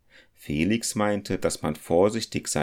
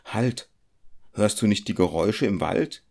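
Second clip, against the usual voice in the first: frightened call; 4 semitones higher than usual. Acted. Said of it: "rief Felix ängstlich".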